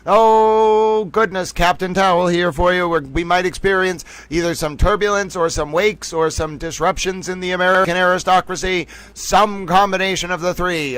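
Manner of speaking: put-on old newsreel announcer voice; 1940s news announcer. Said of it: "I'm a nineteen forties news announcer".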